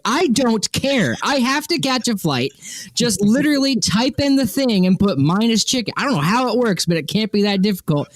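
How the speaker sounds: fed up, just want to leave; retelling an impatient rant at a cashier; exasperated rant. Retold or imitated.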